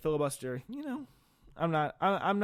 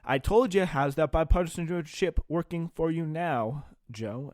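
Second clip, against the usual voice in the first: gloating taunt; 4 semitones higher, slower than usual. Retold or imitated. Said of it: "emboldens the far left saying".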